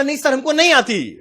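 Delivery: high-pitched mimicked South Indian lilt; mocking South Indian tone. Trainee declines the challenge, mocking the South Indian accent. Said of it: "हम उसका tone का ही मजाक उड़ा रहे हैं".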